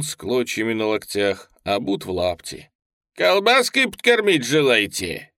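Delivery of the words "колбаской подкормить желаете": loud, high, showing-off shout; swaggering shout. A narrator's reading. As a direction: crow it out with bravado. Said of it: "крикнул куражливо".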